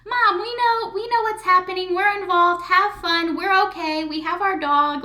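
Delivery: high, bright kids' reassuring voice, mimicked; imitating her kids. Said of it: "her kids say".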